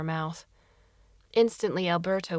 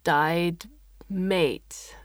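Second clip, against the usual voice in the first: chittering alien; much slower than usual. Acted. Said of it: "the alien chittered".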